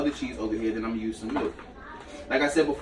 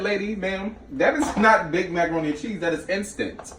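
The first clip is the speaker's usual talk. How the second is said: retold scolding; 6 semitones higher than usual. Retold grocery store argument.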